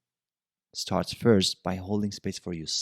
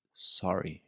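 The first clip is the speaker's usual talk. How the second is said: calm apology; 5 semitones lower, 7 dB quieter than usual. Shown as a demonstration. Modelling apology once things calm down.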